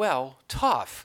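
ordinary delivery

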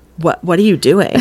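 plain

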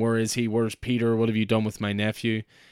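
ordinary talk

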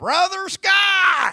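shrill, booming, very loud, high country holler. Speaker retells someone at the Loop yelling his name across the restaurant: country-voice yell. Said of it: "yelled out in the most country voice imaginable".

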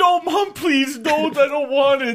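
play-acted, very high, tearful whimpering plea. Retelling how a boy begged his mom while being hit; imitating crying and whimpering. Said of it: "like crying and whimpering".

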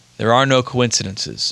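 plain

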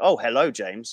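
put-on heavy, thick, laid-on American accent. Retelling how a guy greeted him at a girl's apartment; Nick's thick American accent. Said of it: "in like a quite a thick American accent".

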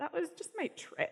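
put-on trembling, wobbly, high little-girl voice. A parent retells what their child says after falling, imitating a shaky, wobbly voice. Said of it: "with a shaky, wobbly voice".

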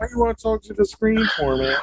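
high, lazy, disinterested dog voice. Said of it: "a very lazy and disinterested voice".

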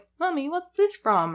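put-on high childlike voice, like a small child. Imagining a kid who watched it asking their mother, speaking like a child. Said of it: "speaking like a child".

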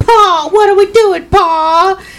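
put-on very high Southern accent with the word Pa stretched. Speaker complains about characters' accents and mimics them, imitating characters' accents. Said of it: "their accents really started bothering me".

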